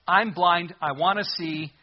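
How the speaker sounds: loud pleading cry. Retold or imitated. Blind beggar calling loudly to Jesus. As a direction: beg out loud to be heard. Blind man crying out, voiced.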